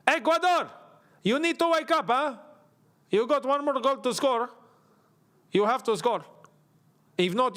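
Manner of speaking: mock Hispanic-accented coach rallying a team. Football commentator warning Ecuador to score, Hispanic accent. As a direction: urge them on in a put-on South American accent. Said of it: "just a Hispanic accent".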